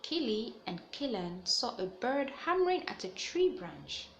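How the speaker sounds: put-on lively storybook read-aloud for young listeners; reading to children. A narrator's reading. Teacher reading a picture book to the class, animated storytelling. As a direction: tell it brightly, like story time.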